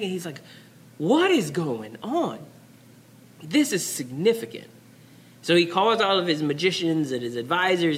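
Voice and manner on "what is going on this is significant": mock panicking. Pharaoh wakes up sweating from a second dream, mildly panicked. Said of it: "and he's panicking".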